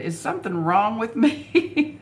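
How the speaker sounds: lightly voiced worried young wife asking herself; plaintive quoted question. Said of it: "and she said".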